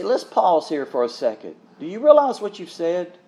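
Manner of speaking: gentle, mild reproof; lightly softened, caring correction; loving. Acted. Preacher modelling a reply to flippant speech, loving. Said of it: "lovingly say".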